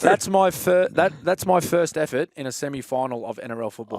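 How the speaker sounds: retold incredulous outburst; mock dismay. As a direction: exclaim it in exasperated disbelief at yourself. Retelling his horrified thought after botched kickoff.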